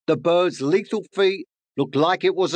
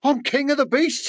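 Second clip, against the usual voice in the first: much higher, swelling boast of a king; proud lion; 11 semitones higher than usual. Acted. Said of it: "he thought".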